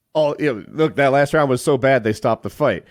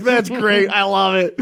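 excited Rogan; 8 semitones higher, 3 dB louder than usual. Retold or imitated. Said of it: "He's like".

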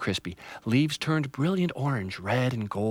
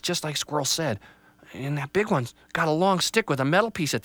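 put-on a slightly higher young tree voice, hopeful; a small tree bracing herself; lightly voiced little tree; 5 semitones higher than usual. Little Tree psyches herself up as the family comes, lightly voiced.

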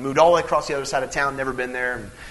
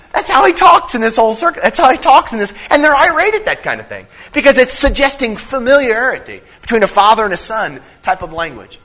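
fervent preaching; 7 semitones higher, 4 dB louder than usual. Real, not acted. Preacher building to a peak.

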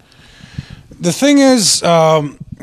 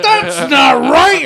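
mock objection; 9 semitones higher, much slower than usual. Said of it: "They're like".

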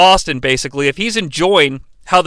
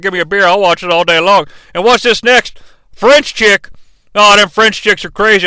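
Austin reading ad copy. Pretend. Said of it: "get Austin out here reading the ad copy".

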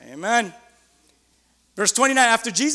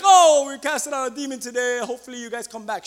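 mock timid announcement; 3 semitones higher, 4 dB louder than usual. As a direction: start raised, let it trail away limply. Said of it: "I don't wanna be like".

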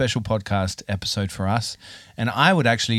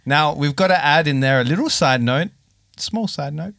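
announcer. Acted. Mock award announcement.

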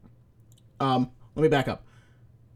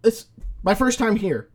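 defensive driver; 7 semitones higher than usual. Retold or imitated. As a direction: protest it's a first visit. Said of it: "he gets all in the big hits".

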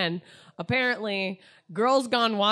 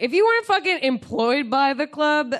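put-on drunken rant; 3 semitones higher, 4 dB louder than usual. Drunk tirade at bouncer.

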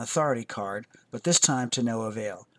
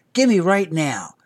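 put-on loud, slow, insistent child's demand; demanding toddler; 5 semitones higher, 8 dB louder, slower than usual. A narrator's reading. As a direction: drag out each word like a stomping kid. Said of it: "stomping his feet for emphasis".

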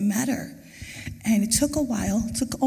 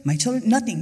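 higher, louder, firm refusal; mother telling her son's killer he takes nothing more, defiant; 6 semitones higher, 4 dB louder than usual. Real, not acted. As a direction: stand your ground against the killer.

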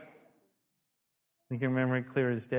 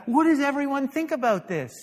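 pitched high, louder; eager group question; 11 semitones higher, 7 dB louder than usual. Retold or imitated. Pastor mimicking the group asking for opinions, high and eager.

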